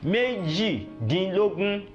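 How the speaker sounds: Méjìdínlógún drawn out in parts; slow teaching model. Shown as a demonstration. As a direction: say the number slowly for learners. Teacher models number word slowly.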